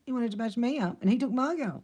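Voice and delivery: hurt, indignant whine; wounded protest. Acted. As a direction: protest the old injustice, voice rising. Acted wounded outburst about high school.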